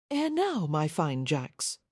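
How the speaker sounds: put-on Cockney accent, called out brightly then dropping; light Cockney call across the alley; a hint of a Cockney barmaid hailing the men; Cockney woman calling out. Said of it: "the woman called out in a Cockney accent".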